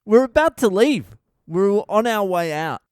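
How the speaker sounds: high, loud indignant cry; loud exasperation. Retold or imitated. Dad retelling a doctor's near miss, loud exasperation. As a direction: exclaim it in loud disbelief.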